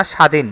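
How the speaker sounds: স্বাধীন said as "sha-dhin"; single sh, no b in স্বাধীন; silent b. Shown as a demonstration. Teacher shows the word where bofola is unspoken, demonstrating "sha-dhin" for স্বাধীন. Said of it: "বফলা উচ্চারণ এখানে হবে না".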